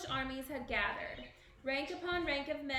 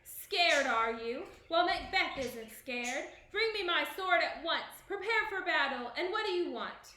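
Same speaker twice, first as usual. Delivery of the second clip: loud, high furious barking; bully the messenger into battle; fierce bark; 4 semitones higher, 6 dB louder than usual. A narrator's reading. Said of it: "he barked fiercely".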